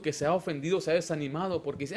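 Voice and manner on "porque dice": ordinary delivery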